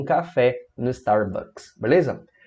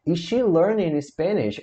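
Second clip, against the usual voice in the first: "Is she learning Spanish" slow, higher questioning tune; interrogative intonation; 4 semitones higher, slower than usual. Shown as a demonstration. Teacher demonstrating the intonation change, "Is she learning Spanish" as slow question. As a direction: stretch out the question, pitched up. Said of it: "Veja como a entonação muda".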